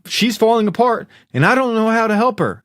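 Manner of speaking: high-pitched, helpless pleading; retold desperate plea. Acting out a son who can't help her, desperate plea to dad.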